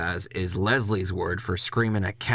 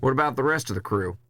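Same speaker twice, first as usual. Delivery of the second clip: quick question; 5 semitones higher, faster than usual. Acted. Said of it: "Only thing I say is".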